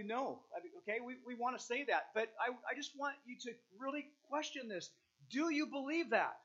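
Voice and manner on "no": emphatic no; a firm, emphatic denial. Real, not acted. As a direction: land firmly on the no. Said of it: "we want to just say emphatically".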